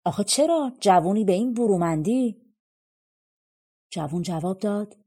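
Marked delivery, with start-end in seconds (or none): 0.0-2.5 surprised. Acted. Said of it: "تعجب کرد و گفت".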